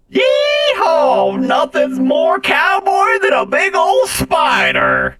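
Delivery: high, slow hollering cowboy voice; cowboy yell. Acted. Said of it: "yells out".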